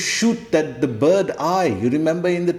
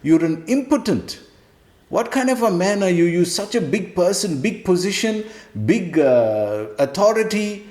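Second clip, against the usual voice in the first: Krishna scolding; 6 semitones higher than usual. Retold or imitated. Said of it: "He's saying".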